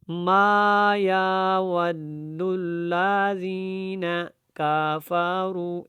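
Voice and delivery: slow chant lengthening short vowels in کفروا; faulty, evenly stretched Quran reading; wrong recitation demo. Shown as a demonstration. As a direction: drag every syllable of ما یود long, as careless readers do. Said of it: "اس طریقے سے جو پڑھا جاتا ہے قرآن، یہ بالکل غلط ہے".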